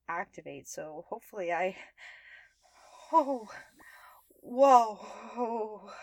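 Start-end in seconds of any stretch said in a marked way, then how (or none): 3.1-5.9 surprised. Acted. Potion starts taking effect.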